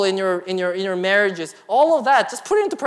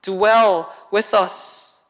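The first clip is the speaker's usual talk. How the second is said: slow pleading; 4 dB louder, much slower than usual. Acted. Voicing Moses pleading slowly.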